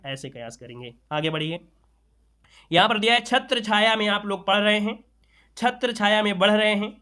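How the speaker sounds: ordinary delivery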